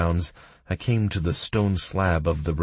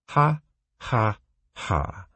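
mocking laugh; 6 semitones higher, slower than usual. A narrator's reading.

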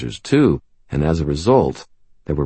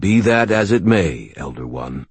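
gentle and respectful; 2 semitones higher than usual. Acted. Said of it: "gently and with respect".

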